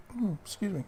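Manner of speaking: talking through hiccups. Real, not acted. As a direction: hiccup between words. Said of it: "got the hiccups".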